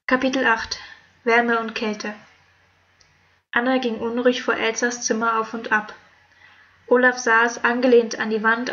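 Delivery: measured storytelling read-aloud; audiobook narration. Acted. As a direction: read it as an emotional audiobook chapter. Reads own story chapter aloud.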